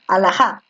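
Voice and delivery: alhaja with the stress pushed to the final JA; testing syllable stress. Shown as a demonstration. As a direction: alhaja said as a-la-JÁ, as a test. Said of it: "Es una grave".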